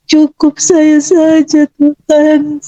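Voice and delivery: slow, choked-up prayer; tearful pleading. Retold or imitated. Mother offering herself in her child's place, tearful pleading. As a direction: draw the plea out, near tears. Retold begging prayer to God.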